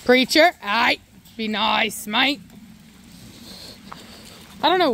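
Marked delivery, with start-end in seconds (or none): 0.0-2.4 casual put-on British accent. Real, not acted. Owner telling the dog to behave, British accent. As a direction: scold a pet in a light British accent. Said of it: "a British accent".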